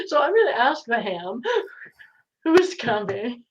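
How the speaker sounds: laughing while talking. Real, not acted. Laughing while asking the ham.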